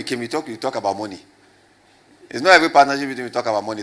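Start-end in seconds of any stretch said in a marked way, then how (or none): 2.3-3.8 loud and fast, louder at the end; emphatic loud rebuttal. Real, not acted. Preacher rebutting congregation's claim, loud and fast. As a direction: push back hard.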